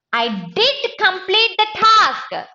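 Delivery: DID punched high, whole line slow and deliberate; stress on DID. Shown as a demonstration. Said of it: "I wanted to add emphasis".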